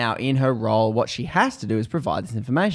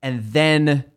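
pleading, pitched up and a bit louder; frustrated; 4 semitones higher, 3 dB louder than usual. Retold or imitated. Arguing with the officer, frustrated and exasperated. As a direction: push back, exasperated but bargaining. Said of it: "She's, like, frustrated".

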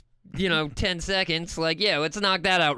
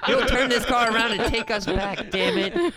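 laughing mock; 3 semitones higher than usual. Child mocking parent.

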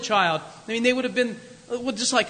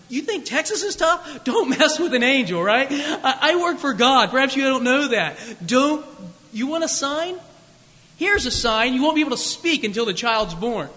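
angel; 3 semitones higher, 3 dB louder than usual. Retold or imitated. Angel's voice rebuking Zechariah.

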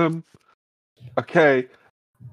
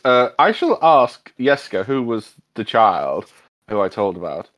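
put-on shouting for the boy; slower than usual. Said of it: "he shouts".

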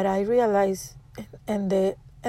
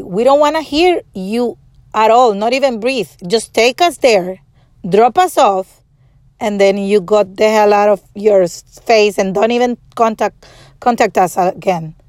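retold angry telling-off; 5 dB louder than usual. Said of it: "I was so angry".

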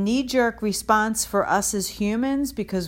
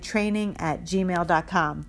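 slow, careful repeat of the address; slowly dictating the email; slow and clear. Shown as a demonstration. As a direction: spell it out slowly for listeners. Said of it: "That's S T A T".

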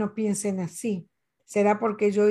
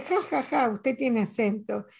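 imitating mocking laugh. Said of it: "una señora se rió".

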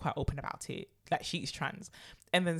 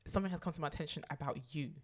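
soft, measured accusation; mock confrontation; 2 semitones lower, 8 dB quieter than usual. Woman sitting a contestant down to confront her, mock-grave and quiet. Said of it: "she sits her down and she says".

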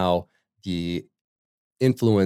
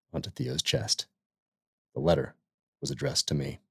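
measured, dramatic book reading with long pauses; reading a passage aloud; 2 semitones lower than usual. Acted. Podcast host reading the opening of Infidel to listeners, measured and dramatic. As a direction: read it like the gripping opening of a memoir.

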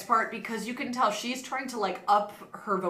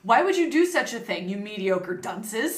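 seething anger. Acted. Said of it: "he yelled in a furious voice".

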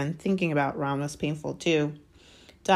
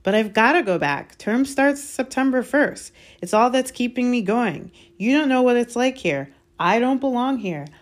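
put-on higher, louder, pleading boy; protesting schoolboy; 7 semitones higher, 5 dB louder than usual. Boy insisting he must go back to Hogwarts, protesting. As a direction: argue back in a raised, upset voice.

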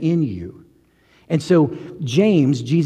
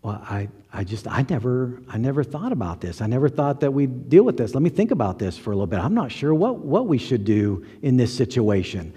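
hushed, halting mock disbelief; understated put-on bewilderment, at a loss; feigned shock; 4 dB quieter than usual. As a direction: act stunned, softly stumbling over your words. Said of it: "act shocked".

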